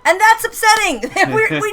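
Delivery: mock upset. Mock dismay at forgetting the joke.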